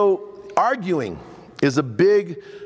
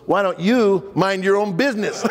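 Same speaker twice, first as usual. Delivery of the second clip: wife's retort; 4 semitones higher than usual. Retold or imitated. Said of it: "She goes".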